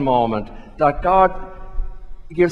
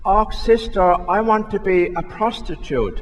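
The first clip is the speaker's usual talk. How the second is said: put-on girl's high Northern Irish lilt; little Susie answering sister in a Belfast accent; 5 semitones higher than usual. Priest telling a joke, Susie answers the nun in a Northern Irish accent. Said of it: "in an Northern Ireland accent".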